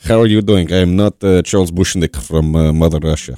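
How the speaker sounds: a light, playful fake Russian accent, slowed on the name; mock Russian accent. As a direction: play a Russian spy introducing himself, lightly. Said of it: "Let me get my American accent back".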